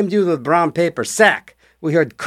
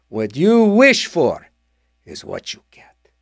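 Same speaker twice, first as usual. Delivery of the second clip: slow fading genie whisper; slower than usual. Retold or imitated. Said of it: "he said".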